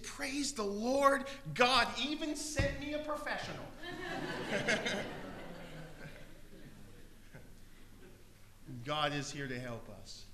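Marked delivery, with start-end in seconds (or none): 0.0-3.7 excited. Retold or imitated. Pastor voicing the woman thrilled at her rescuer. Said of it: "she got excited". 3.7-6.8 laughing. Real, not acted. Laughter after punchline.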